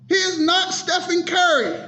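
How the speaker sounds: ranting vlogger shouting at fans; frustrated shout. Real, not acted. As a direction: yell it at the fans, fed up. Heated rant, shout heard.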